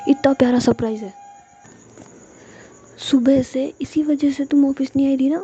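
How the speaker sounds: put-on happy outburst to a girlfriend; delighted surprise. A narrator's reading. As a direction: gush loudly over a lovely surprise.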